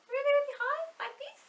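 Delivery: tiny squeaky very high voice; like a little mouse; really high voice. Shown as a demonstration. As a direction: climb right up to a squeak. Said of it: "Now let's say it really, really high".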